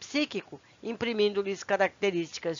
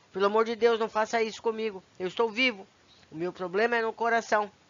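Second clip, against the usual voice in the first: ordinary talk, nothing marked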